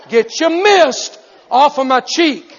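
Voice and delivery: loud, slow, laughing yell; laughing shout. Retold or imitated. Preacher retelling telling the man to back off, laughing shout. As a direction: bark it out through laughter. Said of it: "I said".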